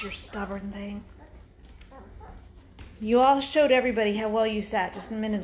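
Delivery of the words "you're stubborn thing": whispered exasperation. Real, not acted. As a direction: mutter it under your breath at the dog. Scolding dog under breath.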